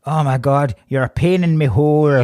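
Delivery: hammed-up fake Irish accent; mock film Irish. Friend quoting what he keeps going, mock film Irish. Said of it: "And he keeps going".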